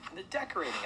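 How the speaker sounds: high small-rabbit voice. A narrator's reading. Small rabbit joining the guests' protest, high little voice. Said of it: "added a small rabbit".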